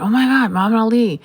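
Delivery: loud, high-pitched amazed cry; starstruck exclamation. Retold or imitated. Twin recognizing the famous boxer in the limousine, starstruck exclamation. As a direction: burst out like an awestruck fan. Acts twin's starstruck reaction.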